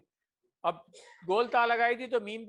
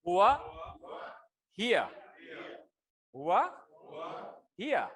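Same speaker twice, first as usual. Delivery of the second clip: drill call-out. Shown as a demonstration. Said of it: "ہاتھ change کرنے کی quickly practice".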